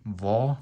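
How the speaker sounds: va pushed out loud and firm; heavy va. Shown as a demonstration. Teacher contrasting heavy va with ba. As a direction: hit va hard from the throat. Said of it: "notice the difference between".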